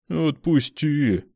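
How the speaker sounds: slow, drawn-out high plea; awkward plea. A narrator's reading. Woman pulling awkwardly, drawn-out plea. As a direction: stretch it out awkwardly. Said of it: "тянула фрау неловко".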